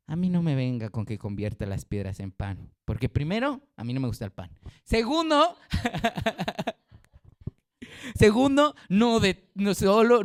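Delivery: un toque de Jesús que responde al diablo; Jesús rechazando al diablo, con una sonrisa; Jesús respondiendo al diablo. Retold or imitated. Jesús voz imitada ante el diablo. (Jesús responde al diablo con ligera firmeza)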